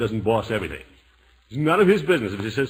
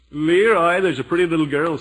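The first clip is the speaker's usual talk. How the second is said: calling out; 4 semitones higher, 5 dB louder than usual. Acted. Calling to Leroy outside.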